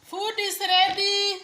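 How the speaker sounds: loud, slow high dinner call. Real, not acted. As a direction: call everyone to the table. Calling kids to eat.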